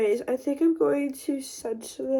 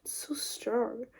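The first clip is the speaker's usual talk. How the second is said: whispering; 8 dB quieter, slower than usual. Real, not acted. Whispered aside about the smell.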